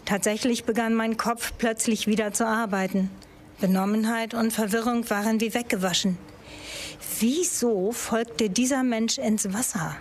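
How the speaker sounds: measured, even audiobook-style reading; story narration. A narrator's reading. Author reads a lake swimming thriller to an audience, measured narration. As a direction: read the suspense passage as a composed narrator. Reads a novel excerpt aloud.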